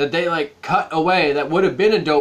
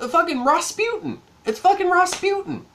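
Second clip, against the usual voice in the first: high, disbelieving outburst; incredulous exclamation; 11 semitones higher than usual. Real, not acted. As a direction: blurt it out in disbelief. Exasperated exclamation.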